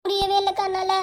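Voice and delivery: mildly tearful plea; a touch of weepy helplessness; acted crying. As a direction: give in, as if close to tears. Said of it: "அழாதடி".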